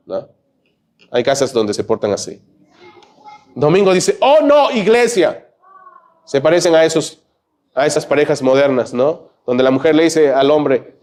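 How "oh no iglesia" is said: much higher, hammed-up groan of reluctance; mock whining. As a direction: whine it like a spoiled child. Imita quejas del domingo. (queja exagerada y aguda)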